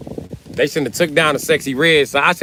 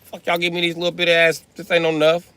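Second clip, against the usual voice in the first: mock outrage; 6 semitones higher than usual. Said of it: "I was mad".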